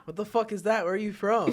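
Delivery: a hint of a brash comedian; comic's jab. Comedian Santino roasting an audience member, lightly mock brash. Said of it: "And Andrew Santino was like".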